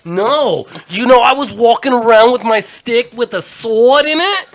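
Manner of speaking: put-on high, loud, slow old-timer voice; old Jewish character voice. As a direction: play a loud old man reminiscing. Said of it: "That was Jewish, Jewish Theater".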